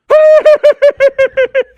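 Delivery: high loud burst of laughter. Real, not acted. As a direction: crack up at the punchline. Laughs at his own joke.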